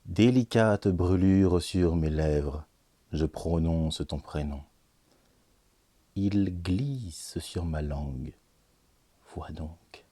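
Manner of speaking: deliberate recital, pausing between phrases; poetry reading. Acted. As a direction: declaim the verse, drawing out key words. Reads the second poem.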